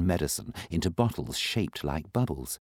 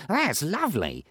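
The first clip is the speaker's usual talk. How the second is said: much higher, delighted; high character voice; 13 semitones higher than usual. Acted. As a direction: coo over the shining jar. Saucepan voice.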